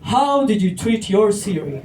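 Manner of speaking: lightly voiced stern machine judge; measured mock-judge questioning. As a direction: interrogate like a judge in court. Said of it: "the A I judge will be like".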